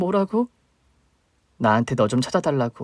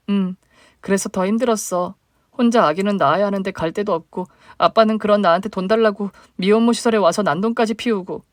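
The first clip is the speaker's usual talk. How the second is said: higher, plaintive younger sister; 8 semitones higher, 3 dB louder than usual. Acted. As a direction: voice the hurt little sister reaching up.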